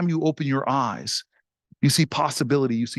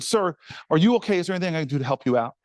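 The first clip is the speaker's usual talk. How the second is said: lowered tone; faster than usual. Retold or imitated. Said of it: "So I lowered my tone a little bit".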